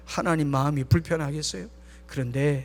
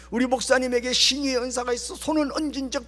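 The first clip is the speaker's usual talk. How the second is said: imitated prayer; 5 semitones higher than usual. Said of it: "이렇게 기도하는 분도 있더라고요".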